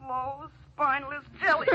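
softly repeated taunt from memory; haunting echo. Acted. Dead woman's words ringing in his ears, haunting. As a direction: replay the insult quietly, like a nagging thought. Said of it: "Ellen's words ring in his ears".

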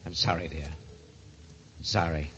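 low, soft apology; hushed, regretful; contrite. Acted. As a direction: drop right down after the outburst, with pauses. Apologises after outburst.

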